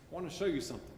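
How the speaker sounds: a soft hint of rancher twang. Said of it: "California rancher voice".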